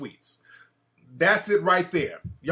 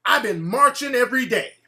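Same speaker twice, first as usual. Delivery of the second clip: imitating her; 4 semitones higher, 4 dB louder than usual. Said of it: "This is literally her saying this".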